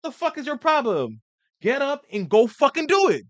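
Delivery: high, loud drill-sergeant yell; harsh yelling. Retold or imitated. Showing how men want to be yelled at, loud and harsh. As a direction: bark it like a coach chewing you out. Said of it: "we wanna be like".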